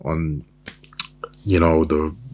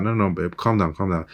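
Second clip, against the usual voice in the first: put-on soothing boyfriend. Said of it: "He's like".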